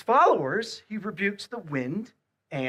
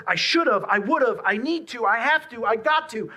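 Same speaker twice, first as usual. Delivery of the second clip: pressured, raised, hurried self-talk; anxious inner voice; 8 semitones higher, 8 dB louder than usual. Acted. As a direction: sound driven by every should. Voicing inner pressure thoughts.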